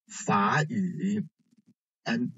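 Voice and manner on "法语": 法语 said slowly with 法 rising like a second tone; tone sandhi. Shown as a demonstration. Teacher showing students how 法语 really sounds, slow, with 法 rising. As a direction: let 法 in 法语 rise instead of dip, slowly. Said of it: "But as you hear, it is read as".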